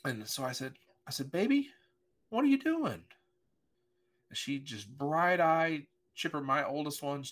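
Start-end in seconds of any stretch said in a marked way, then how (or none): 1.3-3.0 put-on high, loud sharp call of 'Baby'; angry call. Father catching his daughter scrubbing the car with a broom, angry. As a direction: hold back anger while calling out, pitched way up. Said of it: "anger when I saw my daughter".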